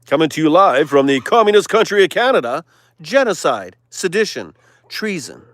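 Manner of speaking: news anchor. Pretend. Preacher mocking the news, live anchor voice. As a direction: read it like a breaking-news lead-in. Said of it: "The news".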